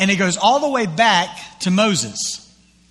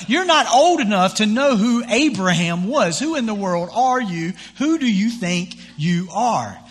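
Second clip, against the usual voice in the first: indignant jeering crowd, pitched up; mock angry crowd; 4 semitones higher than usual. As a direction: play the outraged Pharisees shouting him down. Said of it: "like, all crazy".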